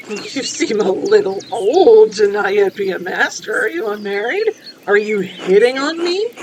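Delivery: lightly voiced inquisitive traveller; a hint of a prying character, questions swinging upward; game character.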